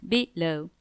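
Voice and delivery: "below" with a light be- and weighted -low; stress on second syllable. Shown as a demonstration. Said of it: "The stress is on the second syllable".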